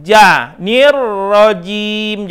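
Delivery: "nirrojim" slow with a clear J; careful J. Shown as a demonstration. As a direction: model "nirrojim" slowly. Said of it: "usahakan ja".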